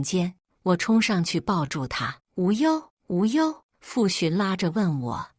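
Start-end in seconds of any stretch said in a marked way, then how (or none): 2.4-3.6 higher pitched, desperate cry of a name; anguished calling. Acted. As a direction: call her child's name in panic. Mother rushes to injured daughter. (焦急地高声呼唤女儿)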